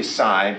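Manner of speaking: "psi" said as sigh, like "my"; rhyming with my. Shown as a demonstration. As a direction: model "psi" with a long i sound. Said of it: "it should be psi".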